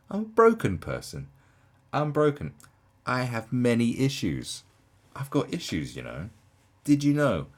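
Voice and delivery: hammed-up, high-pitched mock confession. Reactor mimics a delegate confessing to the room, mock confession. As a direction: overplay it as a mocking announcement of your troubles. Mockingly acting out the speaker's confession.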